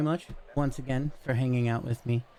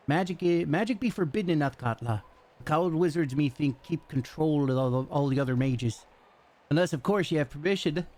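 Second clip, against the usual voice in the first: lightly voiced gruff commoner, raised pitch; rough local townsman; 3 semitones higher than usual. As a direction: play a chatty, rough dockside local. Voices the townsman NPC again.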